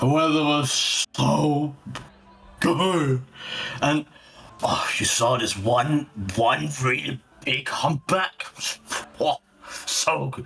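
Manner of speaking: put-on drunken murmur with slurred, unclear words. Game player voicing one of two whale fishermen: drunken murmur, slurring words. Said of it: "You overhear the really, drunken murmur and not pronouncing their words at all. 2 whale fishermen going about their day. / You overhear the really, drunken murmur and not pronouncing their words at al".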